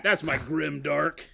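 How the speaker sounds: slow, loud, spooky put-on voice; slow hammed-up grim voice; mock grim drawl. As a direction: drag it out like a doom prophet. Mock gloomy line after teasing.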